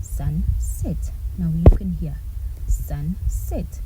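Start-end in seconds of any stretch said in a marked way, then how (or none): 0.0-1.1 "Sunset" in two parts with short, unstressed vowels; short vowel sound. Shown as a demonstration. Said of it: "that has a short sound". 2.7-3.8 "sunset" with short, closed vowels in both syllables; don't stretch the vowels in "sunset"; short vowel sound. Shown as a demonstration. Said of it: "I am not emphasizing".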